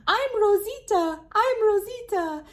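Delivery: high squawky bird imitation; parrot voice. Imitating the bird Rosita for the kids. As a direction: mimic a parrot saying its name, high.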